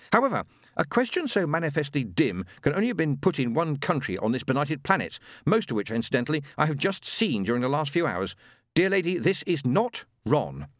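lofty, superior medium voice; a condescending otherworldly guide; haughty spirit guide. Acted. Madam Tracy's spirit guide.

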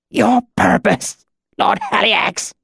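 very high, strangled agony; choked out. A narrator's reading. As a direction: choke the words out through pain. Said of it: "The words were choked out".

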